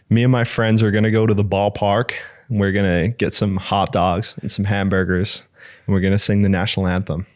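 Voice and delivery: Australian trying a general American accent; Australian doing an American voice. Shown as a demonstration. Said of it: "say in an American accent".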